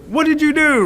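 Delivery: high-pitched cry of alarm; alarmed question. A narrator's reading. Animals ask Rabbit running at them, alarmed question.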